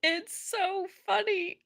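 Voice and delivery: squeaking high through laughter; helpless laughter. Real, not acted. Host cracking up at the hearing, helpless laughter.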